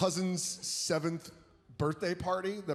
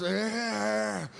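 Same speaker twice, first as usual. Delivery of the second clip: hillbilly rant; 8 semitones higher, much slower than usual. Retold or imitated. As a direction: yell it like a sweaty hillbilly in overalls. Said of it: "some fat guy in overalls".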